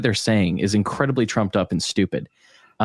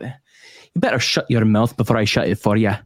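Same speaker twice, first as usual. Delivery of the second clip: Scottish accent. Shown as a demonstration. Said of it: "for doing a Scottish accent".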